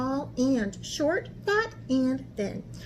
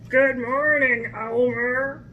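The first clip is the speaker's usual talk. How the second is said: friendly animals; 5 dB louder, slower than usual. A narrator's reading. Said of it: "they said".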